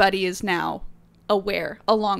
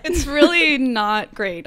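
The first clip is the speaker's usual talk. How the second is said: laughing tease; 3 semitones higher, 6 dB louder, slower than usual. Real, not acted. Teasing about the rasp.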